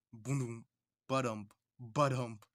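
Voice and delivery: imitated heartbeat thumps; slow, pulsing ba-dump; beating heart. Shown as a demonstration. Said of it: "it's like a beating heart".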